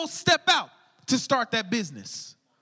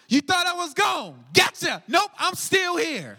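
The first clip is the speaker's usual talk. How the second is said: teasing gotcha; 4 semitones higher, 3 dB louder than usual. Acted. God teasing Elijah, gotcha.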